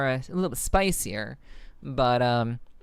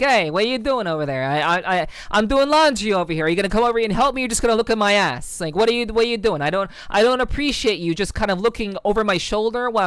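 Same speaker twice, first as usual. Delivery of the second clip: put-on ghetto cat girl; 3 semitones higher than usual. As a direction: nag him like an annoyed Jersey girl doing laundry. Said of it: "ghetto cat girl from New Jersey".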